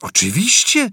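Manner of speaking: high, loud servile shout; eager exclamation. A narrator's reading. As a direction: shout it for the telescreen to hear. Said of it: "zawołał Parsons". (gorliwy okrzyk)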